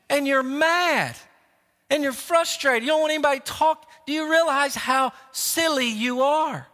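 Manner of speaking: high-pitched, exasperated telling-off; coach's scolding. Retold or imitated. Coach retelling his rebuke of a sulking player, high and exasperated. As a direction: dress the player down in incredulous disbelief. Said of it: "I walk over to him and say".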